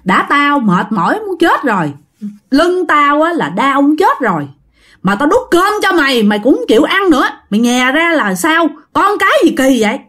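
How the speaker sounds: put-on a tired mom snapping at her kid over dinner; mother scolding her six-year-old who spat out his food, fed up; scolding a child. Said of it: "bà này bả mới chửi".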